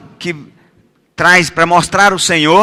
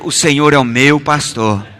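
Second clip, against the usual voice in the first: lower, tender voice of a sheep; loving sheep's voice; 5 semitones lower than usual. Shown as a demonstration. Preacher showing congregation how to recite the psalm, loving sheep's voice. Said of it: "com a voz assim de ovelha, amando o pastor".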